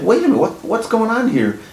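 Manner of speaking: retold shocked outburst at the deed; shocked disbelief. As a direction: squeal out the shock of finding the missing lots. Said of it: "I was like".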